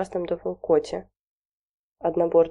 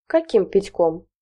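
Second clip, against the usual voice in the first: aghast; 2 semitones higher, slower than usual. Acted. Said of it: "обмерла Галина Семёновна".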